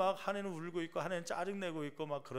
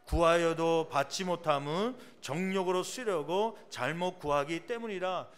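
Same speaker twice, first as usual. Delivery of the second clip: slow, loud solemn recitation of the verse; measured, louder Bible reading; scripture reading; 6 dB louder than usual. Acted. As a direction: read the verse out slowly and weightily. Reads scripture aloud together.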